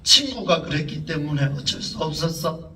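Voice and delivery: mildly imitated tearful child; a touch of mock weeping. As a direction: quote a crying child, a little subdued. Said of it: "그런 울고 있는 속에서 하는 이야기가".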